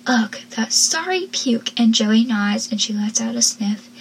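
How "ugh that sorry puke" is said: scoffing. Retold or imitated. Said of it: "Abby then scoffs and says".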